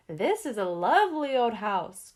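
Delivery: slow, high, loud wailing ghost voice; a ghost crying out in a floaty voice; ghostly cry. A narrator's reading. Gus cries out to Mister Scott, high slow ghostly wail. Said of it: "cried Gus in ghostly language".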